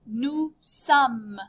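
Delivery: "Nous sommes" said noo sum, ending on m; no final e or s sound on "sommes". Shown as a demonstration. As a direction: model "sommes" like some. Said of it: "Notice you just say some".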